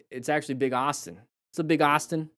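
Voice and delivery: light mock Boston accent; playful touch of Boston. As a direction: lean into a Boston accent on the name. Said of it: "say it with a Boston accent".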